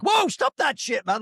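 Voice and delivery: mock protest. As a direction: imitate an exasperated "whoa", stretched and high. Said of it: "his response, where it's sort of like".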